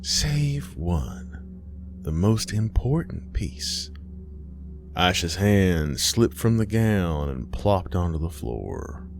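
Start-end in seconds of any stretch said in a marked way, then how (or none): 0.0-3.9 cryptic mother. Acted.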